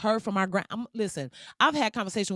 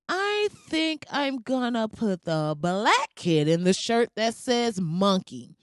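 mocking imitation; slower than usual. Mocking imagined shirt supervisor's decision.

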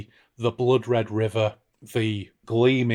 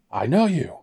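Flana; 5 semitones higher than usual. Acted. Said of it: "I'm gonna be Flana".

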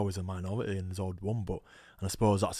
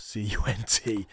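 each letter slow and louder; spelled-out insult; 5 dB louder, slower than usual. Retold or imitated. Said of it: "he went".

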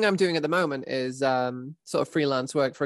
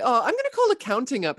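high mock player; 10 semitones higher, 3 dB louder than usual. Imitating a player.

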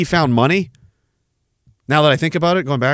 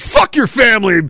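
mock shout; 6 semitones higher than usual. Quoting her insulting anti-vaxxers.

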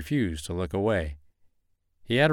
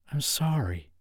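sobbing; 7 semitones higher, 3 dB quieter than usual. Acted. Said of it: "she sobbed".

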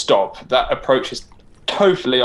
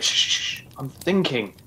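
hushed; 6 dB quieter than usual. Acted. Hushing to think.

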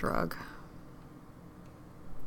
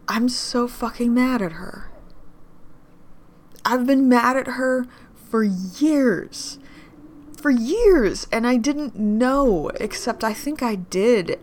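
angry outburst; 5 semitones higher, 6 dB louder, slower than usual. Acted.

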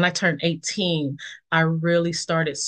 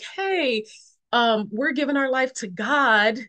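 quoting excited friends; 6 semitones higher than usual. Retold or imitated. Friends announcing faith, quoted.

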